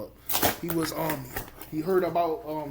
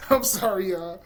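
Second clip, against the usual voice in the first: laughing apology; 4 semitones higher than usual. Real, not acted. Laughing apology for his joke.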